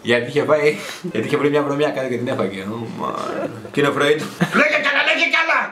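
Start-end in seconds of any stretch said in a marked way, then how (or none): 4.6-5.6 mock cheer.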